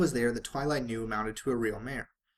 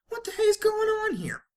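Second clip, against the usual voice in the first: much higher, louder outburst; exasperated shout; 7 dB louder than usual. Acted. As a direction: yell it, completely fed up. Rainbow Dash exasperated outburst.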